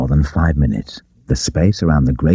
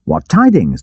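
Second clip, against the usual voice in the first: demanding; 13 semitones higher, 4 dB louder than usual. A narrator's reading. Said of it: "demanded Robin".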